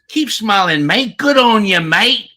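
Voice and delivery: high, loud mock-Australian cheer; Aussie impersonation. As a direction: put on a hammed-up Aussie accent, shouted high. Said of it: "The speaker is loving the Aussie".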